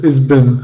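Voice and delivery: "is been" with no H, run together; H dropped. Shown as a demonstration. Teacher showing learners fast speech, "is been" with H dropped. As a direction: say "is been" without pronouncing the H. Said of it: "We might not even pronounce it".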